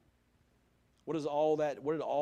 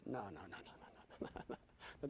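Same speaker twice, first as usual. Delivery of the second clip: retold dismay; 7 semitones lower, 14 dB quieter, much faster than usual. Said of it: "I said".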